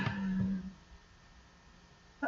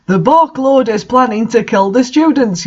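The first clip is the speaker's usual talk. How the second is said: higher, mock yell without much volume; hammed-up yell; 3 semitones higher than usual. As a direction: sound the alarm, overacted. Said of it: "yelled Cornelia Fudge".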